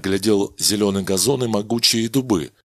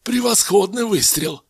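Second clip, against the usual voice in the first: much higher admiring exclamation; praising; 12 semitones higher than usual. Acted. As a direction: praise the colleague. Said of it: "похвалил коллегу Сантазье".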